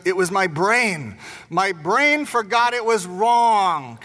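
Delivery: lightly voiced small boy pleading "My brain forgot it was wrong"; little boy's excuse. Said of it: "And so he goes".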